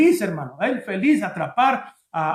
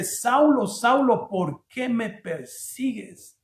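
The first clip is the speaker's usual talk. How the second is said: God; 2 semitones higher, slower than usual. Acted. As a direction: call out the name, then slow right down and drop the volume. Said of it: "viene Dios y le dice".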